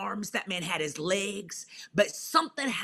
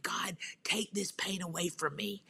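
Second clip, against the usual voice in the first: soft, whispered plea; whispered prayer; 5 dB quieter than usual. Retold or imitated. Praying alone in bed at night, whispered.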